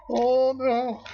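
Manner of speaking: high, loud shriek through laughter; giddy high squeal. Real, not acted. Laughing at own crazy remark.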